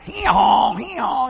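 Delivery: shouted high donkey bray; hee-hawing donkey. Retold or imitated. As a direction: bray loud after the blow. Donkey struck a third time.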